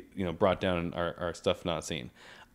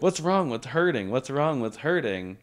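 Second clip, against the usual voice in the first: imitating a yell, pitch jumping up then settling; half-hearted imitation of insistent calling; mild mock yell; 5 semitones higher than usual. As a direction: retell her yelling without full volume. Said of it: "she was just yelling".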